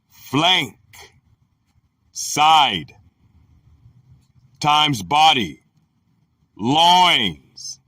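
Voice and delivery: slow, deliberate reading with pauses between items; dictionary entry reading. Real, not acted. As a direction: read it out measuredly, term by term. Reads dictionary entry aloud.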